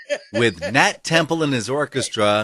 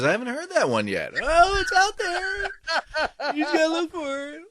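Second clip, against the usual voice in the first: quoting customer; 3 dB quieter than usual. Retold or imitated. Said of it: "and he says".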